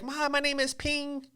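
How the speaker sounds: high imitation Asian accent; squeaky fake Asian accent; mock Asian accent. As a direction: introduce yourself in a put-on Asian accent. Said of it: "She never broke character".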